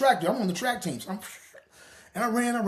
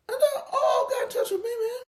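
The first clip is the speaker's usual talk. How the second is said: laughing shout. Real, not acted.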